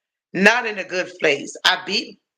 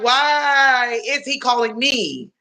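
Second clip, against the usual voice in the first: higher exasperated disbelief; asking why he is calling her again; incredulous; 4 semitones higher than usual. Retold or imitated. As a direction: throw up your hands in disbelief. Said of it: "I'm like".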